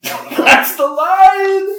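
high, slow, laughing exclamation. Real, not acted. Delighted by the movie's dumb line, laughing hard. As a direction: burst out laughing at the ridiculous line.

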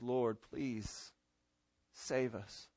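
low, hushed begging; quiet prayer from the depths; humble, desperate plea. Acted. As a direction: plead softly, word by word. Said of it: "desperate cry from somebody who knows".

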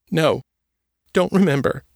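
put-on high, small scared girl's voice; a haunted girl answering in fear; Trisha, frightened girl. A narrator's reading.

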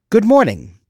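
a bright morning call to the assistant; cheery greeting. Retold or imitated. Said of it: "And then I would say".

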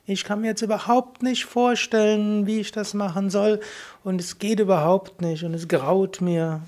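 high voice. Shown as a demonstration. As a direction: lift the voice to voice the reluctance. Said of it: "In der hohen Stimme kannst du anerkennen".

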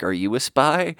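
lightly imitated Russian woman's accent. Russian woman teasing him back in banter, light Russian accent. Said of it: "woman with a cool Russian accent".

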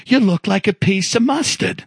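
imitated Long Island Italian-American coworker; mock Italian-American guy telling his troubles. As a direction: put on an Italian-American accent, incredulous complaint. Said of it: "this guy who talked like this, Italian guy".

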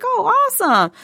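sarcastic. Retold or imitated. Sarcastic reaction to no hands.

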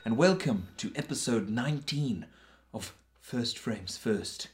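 slow, eerie Halloween host voice; spooky intro voice. Acted. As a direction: drag it out like a horror host. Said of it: "it was very Halloween-like".

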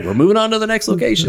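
high, hammed-up travelling showman call; playful carnival barker voice; mock ringmaster. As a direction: announce the next stop like a circus. Joking about circus road show.

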